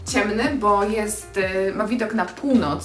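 ordinary talk

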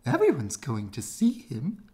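excited squirrels crowding in; squirrels' voice. A narrator's reading. Squirrels eager to see the prince, loud excited voice. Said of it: "said the squirrels".

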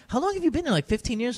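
high, amazed question about Singapore; mock amazement. Host retelling a friend's question, amazed. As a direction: pitch way up in disbelief.

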